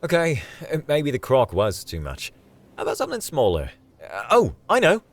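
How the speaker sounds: hesitant, then brightly excited; high-pitched Aussie enthusiasm building to a loud idea; rallying. Acted. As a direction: recover and pitch a new plan eagerly. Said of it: "but he rallied".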